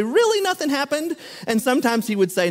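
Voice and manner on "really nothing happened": high, teasing disbelief; mock-incredulous prodding of a friend; a light, playful really; doubtful question. Pressing Noah about his weekend.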